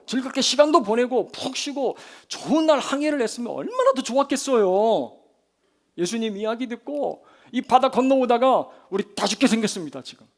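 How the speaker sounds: loud, high-pitched pouring out of complaints; resentful grumbling. Acted. Disciples blaming Jesus for the crossing, loud aggrieved complaint. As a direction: whine and protest at full voice. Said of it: "원망과 불평의 소리를 쏟아놓고 있는".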